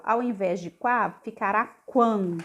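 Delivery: "quá" open, then "quan" with a nasal ending; nasal contrast. Shown as a demonstration. Teacher contrasting quá with nasal quan for adult learners. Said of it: "som mais nasal".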